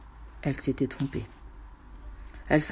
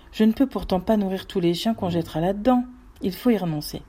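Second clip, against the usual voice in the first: sour tone. Acted. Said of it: "prononça d'un ton aigre".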